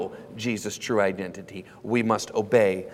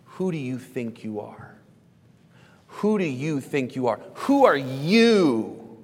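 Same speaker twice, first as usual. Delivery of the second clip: emphatic challenge; slower than usual. Acted. Leaders asking Jesus who he thinks he is, building challenge. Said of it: "We would say it like this".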